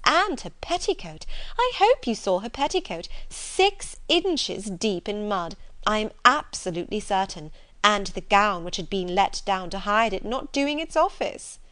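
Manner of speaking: disapproving gossip, lightly acted; scornful society lady. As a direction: savour the scandal with emphatic disdain. Reader voices gossiping sister.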